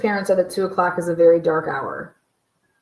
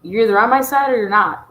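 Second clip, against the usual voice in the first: mock spouse; 6 dB louder than usual.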